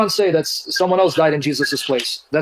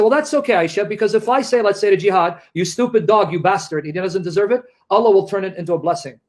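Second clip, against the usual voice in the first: mock prophet voice. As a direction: sneer it out as a dismissive prophet. Imitating prophet justifying curses.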